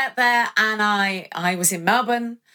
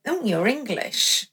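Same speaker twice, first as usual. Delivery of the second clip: mock disdain; 3 semitones higher, slower than usual. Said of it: "Like it was a bad thing".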